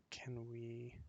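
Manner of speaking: whispered aside to himself; whispering. Real, not acted. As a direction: breathe the words Can we. Muttering to himself while playing.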